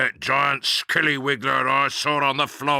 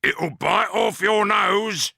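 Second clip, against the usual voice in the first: high, loud, slow shout; mock scary shout; 12 semitones higher, 8 dB louder, slower than usual. A narrator's reading. Husband shouting to frighten his wife away. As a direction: bellow it to scare her off.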